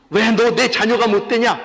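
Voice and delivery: imitated stern reprimand; a touch of accusing reproach; mock scolding. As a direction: demand it like a scolding parent. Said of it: "이렇게 꾸짖으시는 게 아니에요".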